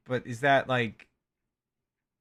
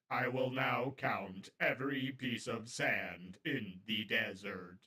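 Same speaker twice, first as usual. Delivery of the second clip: robot voice; 2 semitones lower, 5 dB quieter, slower than usual. Shown as a demonstration. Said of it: "I am now going to be a robot".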